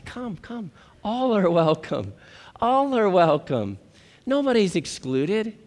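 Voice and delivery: soft, drawn-out loving invitation; tender welcome. Acted. God inviting sinners to come, tenderly welcoming. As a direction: gently beckon them in.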